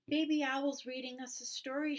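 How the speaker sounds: high, loud proud shout. Acted. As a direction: shout the news to everyone. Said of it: "shouted Tiny Chick".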